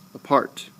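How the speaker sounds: Apart with a barely uttered A; stress on second syllable. Shown as a demonstration. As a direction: make part the syllable you mostly hear in Apart. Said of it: "this is the syllable that you mostly hear".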